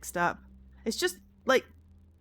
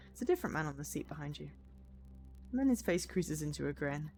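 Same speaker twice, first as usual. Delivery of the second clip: even narration with lightly acted dialogue; storyteller lightly voicing a teasing passenger; story narration; 4 semitones lower than usual. A narrator's reading. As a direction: read the passenger's joke as a story. Reads game story aloud.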